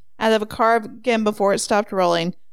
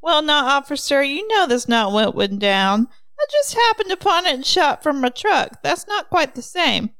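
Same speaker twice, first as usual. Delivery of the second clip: higher voice, pleading his innocence; protesting hunter; 5 semitones higher than usual. Acted. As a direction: talk your way out to the officer. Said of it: "Mister Lundgren protested".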